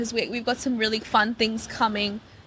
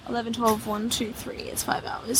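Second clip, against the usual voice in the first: muttered counting; 7 dB quieter than usual. Real, not acted. Counting under breath.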